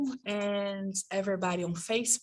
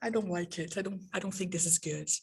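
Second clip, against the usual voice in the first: doubtful student; 6 dB quieter, faster than usual. Acted. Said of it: "But then you say".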